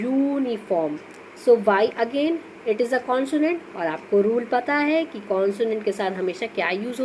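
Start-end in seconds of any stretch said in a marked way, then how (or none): 0.0-1.0 यूनिफॉर्म with a long "yoo" at the start; stressed first sound. Shown as a demonstration. Teacher points out the Y sound, यूनिफॉर्म with its start held. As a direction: lean on the y glide opening यूनिफॉर्म. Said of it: "वाई का sound आ रहा है".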